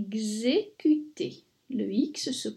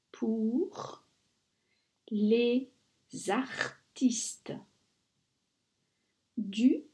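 whispering; slower than usual. Shown as a demonstration. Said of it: "whispered dictation".

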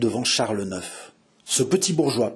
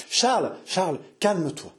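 higher, pleading to calm him; anxious soothing; 6 semitones higher than usual. A narrator's reading. Marie calming her exalted Charles, anxious plea. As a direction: plead gently but urgently.

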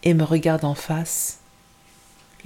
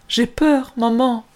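high, louder, scared cry; cling to her with fear; frightened child; 7 semitones higher, 3 dB louder, slower than usual. Acted. Girl telling her mother she is afraid, high and scared.

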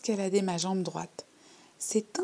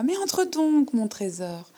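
put-on high, loud, insistent old woman; a cracked, rattling granny voice; rattle-voiced old lady; 6 semitones higher, 6 dB louder, slower than usual. Old lady urges the girl inside, high and rattling. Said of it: "de sa voix de crécelle".

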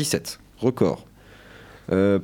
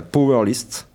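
French-accented attempt at English; English words with a French speaker's accent; self-mocked English accent; slower than usual. Real, not acted. Radio host showing off his English to co-hosts, self-mocked English accent. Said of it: "avec mon bel accent anglais".

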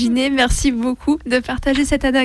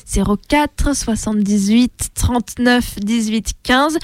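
slow, spaced-out phone number; slowly; slower than usual. Shown as a demonstration. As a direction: read each digit group slowly and clearly. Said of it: "Je répète lentement".

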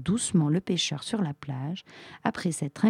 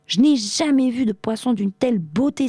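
higher, enchanted cry; delighted exclamation; 6 semitones higher, 4 dB louder than usual. A narrator's reading. Sultan sees the four magic fish, exclaiming. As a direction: lift the pitch in wonder. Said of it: "s'écria-t-il".

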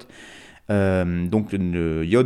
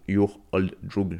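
self-mocked American accent; slower than usual. Real, not acted. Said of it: "me ridiculiser avec mon accent américain dégueulasse".

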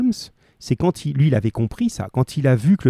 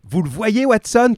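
higher, urgent call, rising on Watson; Holmes crying out; 9 semitones higher than usual. A narrator's reading. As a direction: call out to Watson in alarm, lifting the pitch. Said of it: "cria-t-il".

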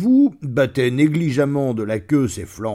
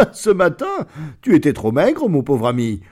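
mocking lion; 4 semitones higher, 4 dB louder than usual. Lion mocks the thin wolf.

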